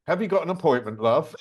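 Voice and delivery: lightly imitated Geordie accent; a hint of a Newcastle woman's voice. Visitor retells the studio doorwoman's question, light Newcastle accent. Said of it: "In a Newcastle accent".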